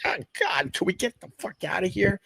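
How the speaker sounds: high-pitched mock exasperation; exasperated kid. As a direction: plead to leave as a fed-up kid. Kid self pleading with dad.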